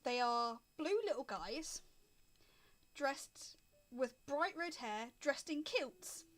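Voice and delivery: slow, paused game master narration; scene setting. Acted. Game master reveals tiny kilted men to players, scene setting. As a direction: unfold the scene slowly with suspenseful pauses.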